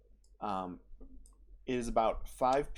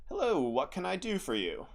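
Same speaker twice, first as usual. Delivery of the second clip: higher, friendly shopkeeper voice; cheerful shop greeting; jolly shopkeeper; 6 semitones higher than usual. Acted. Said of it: "a jolly voice".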